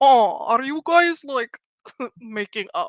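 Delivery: muffled talk through a mouthful, chewing. Retelling how Lada rolls up with snacks, imitating Lada, mouth full of chips. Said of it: "her mouth full of chips".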